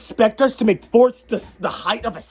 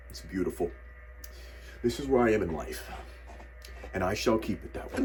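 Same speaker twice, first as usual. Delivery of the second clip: much lower, softer, dreamy; contented dad; 13 semitones lower, 12 dB quieter, faster than usual. Pretend. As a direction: savor it like a satisfied old dad. Admiring fort like middle-aged dad.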